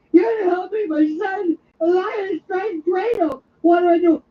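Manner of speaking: high, wailing plea for help; acted distress, pitched high; mock panicked caller. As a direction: beg poison control for help in hammed-up panic. Acted panicked call to poison control.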